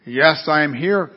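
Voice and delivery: slow, solemn voice from above; very deep voice. Acted. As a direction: answer slowly as an unseen deep voice. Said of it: "came a very deep voice".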